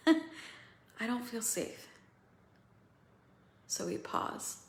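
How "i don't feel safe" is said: slow and choked up; real tears close, drawn out; slow, near tears. Real, not acted. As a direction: let it land slowly, close to crying. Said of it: "I'm gonna cry".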